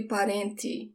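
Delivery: "parente" ending in a hard "tee"; "parente" said pa-REN-tee; regional TE as "tee". Shown as a demonstration. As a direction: finish "parente" with T plus EE, no "ch". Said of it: "the sound of the T E".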